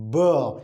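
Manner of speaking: b as "buh", not the letter name; isolated "buh" for b; consonant sound demo. Shown as a demonstration. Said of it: "when you pronounce".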